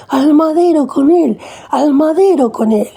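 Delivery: high, slow, drawn-out mock crowd cry; crowd shouting. A narrator's reading.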